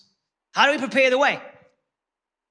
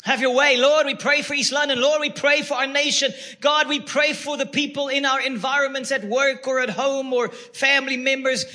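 fervent prayer; 4 semitones higher than usual. Acted. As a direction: cry out to God for the city. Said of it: "call out to the Lord and say".

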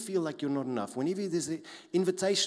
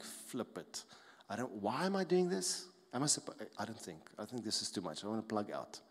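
overwhelmed; 2 semitones lower, 5 dB quieter than usual. Acted. Believer facing resistance from all sides, quietly overwhelmed. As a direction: talk yourself quietly into quitting. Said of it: "Overwhelming resistance from all sides going like".

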